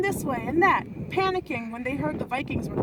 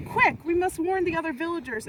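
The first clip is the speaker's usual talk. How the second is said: excited; 4 semitones higher than usual. Acted. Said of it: "exclaimed Brian".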